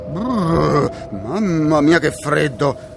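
finto brivido di freddo; tremante di freddo. Pretend. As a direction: battendo i denti per scherzo. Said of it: "sto congelando". (tremando dal freddo)

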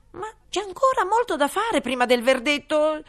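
high, eager rabbit. Acted. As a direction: squeak it out like a rabbit. Rabbit's voice in story. (voce acuta da coniglio)

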